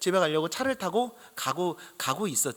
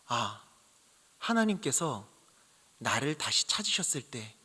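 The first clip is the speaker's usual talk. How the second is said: hushed inner reflection. Retold or imitated. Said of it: "이런 마음이 드는 겁니다".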